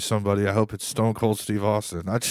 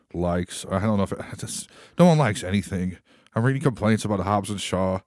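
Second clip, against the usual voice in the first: normal talking voice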